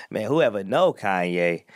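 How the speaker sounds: slow, low mock boast; lightly voiced proud old friend; a hint of Coodie bragging; impression of Coodie. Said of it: "Cootie was more like".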